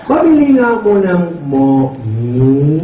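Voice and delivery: hammed-up slow nasal voice; nasal speech impression. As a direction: drag it out like the ngongo customer. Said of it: "Sabi ng ngongo".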